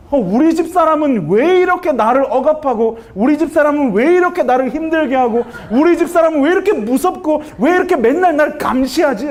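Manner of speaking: mildly hammed-up self-pity; resentful inner complaint. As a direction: act out a husband's exasperated complaint about his wife. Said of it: "제 마음속에 무슨 생각이 드냐면".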